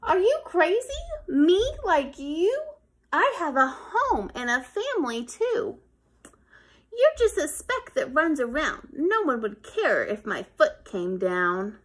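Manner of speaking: lightly voiced scoffing boy; mocking kid. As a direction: scoff at the idea. Kid mocks the ant.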